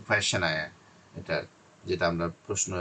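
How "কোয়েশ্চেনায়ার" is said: কোয়েশ্চেনায়ার as question plus a 'naire' ending; correct pronunciation. Shown as a demonstration. Teacher models the word for spelling practice, clear pronunciation. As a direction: say কোয়েশ্চেনায়ার as one joined word. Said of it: "উচ্চারণটা হচ্ছে".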